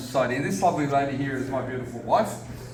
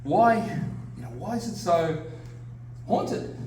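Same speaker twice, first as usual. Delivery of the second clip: rising high on haunted; mock puzzled question; 5 semitones higher than usual. People asking the speaker about his hometown, mock puzzled. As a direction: imitate someone wondering. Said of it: "a lot of people have said to me".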